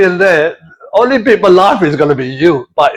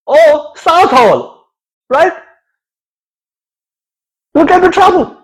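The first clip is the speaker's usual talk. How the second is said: higher, lightly voiced Punjabi uncle warning; Punjabi relative; 5 semitones higher than usual. A light Punjabi uncle warning Terry about his plate. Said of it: "People say".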